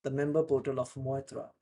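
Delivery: careful, clear reading of a news article; news read-aloud. Shown as a demonstration. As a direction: read it out slowly so students can follow. Reads article aloud for practice.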